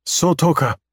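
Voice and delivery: high alien voice. Acted. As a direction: sing out the alien word. Alien names the star.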